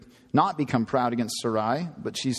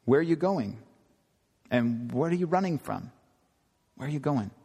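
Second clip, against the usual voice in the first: gentle questioning. Retold or imitated. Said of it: "It's a loving confrontation. He's very gentle".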